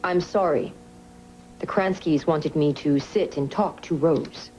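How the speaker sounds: acting out every part while dictating. Shown as a demonstration. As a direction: speak all the voices aloud for the scribe. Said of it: "read that back to me".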